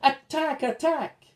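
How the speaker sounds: high, loud battle cry; rally the friends, high and loud; shouted. A narrator's reading. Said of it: "the prince shouted".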